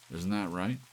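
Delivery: confronting the silent cuckoo; demanding. A narrator's reading. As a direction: push it for an answer. Larry challenging the clock.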